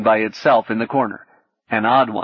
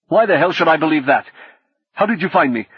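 angry suspicion; 6 semitones higher, 4 dB louder, faster than usual. A narrator's reading. Old hacker snaps suspiciously.

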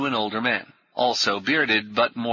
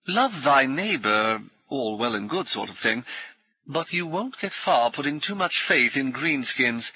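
brisk, higher, jovial military gent; hearty ex-officer; 3 semitones higher than usual. Acted. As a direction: bluff old soldier greeting new friends. Brummond warns Paul.

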